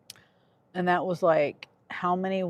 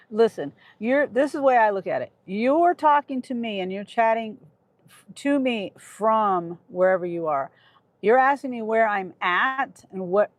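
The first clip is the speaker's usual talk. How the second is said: raised, exasperated insistence; real irritation. Real, not acted. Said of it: "I'm getting irritated. I shouldn't be yelling".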